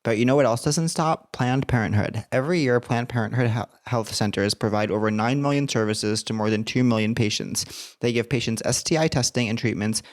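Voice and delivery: even, scripted podcast ad voice; measured announcement with light emphasis on key phrases; sponsor read. Acted. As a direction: deliver the advocacy copy clearly and steadily. Reads a sponsor message.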